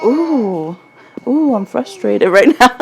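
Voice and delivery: lightly acted frustrated "ooh"; a touch of mock exasperation; mock frustration. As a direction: playfully imitate your own frustration. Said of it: "when I'm frustrated, I'm like".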